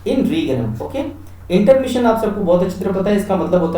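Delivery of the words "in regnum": "in regnum" in two parts, the middle "te" left silent; silent letters. Shown as a demonstration. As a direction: model "in regnum" without sounding the "te". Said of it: "क्या पढ़ना है?". ("in regnum", बीच का टीई silent)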